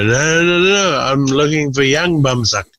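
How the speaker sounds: high, flustered correction; insistent tourist. Retold or imitated. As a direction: set them straight, a bit flustered. Drunk tourist correcting the touts.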